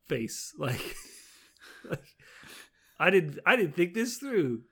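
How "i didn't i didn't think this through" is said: slightly higher, dismayed realization; mock oh-no panic. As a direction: lightly act out a plan falling apart. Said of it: "what I can only describe as the".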